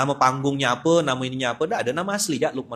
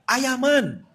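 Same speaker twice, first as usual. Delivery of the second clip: put-on high, excited call of a child; high-pitched mock yell, a little louder; imitated child's shout; 12 semitones higher, 5 dB louder than usual. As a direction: mimic a kid suddenly calling out. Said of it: "tiba-tiba anaknya teriak".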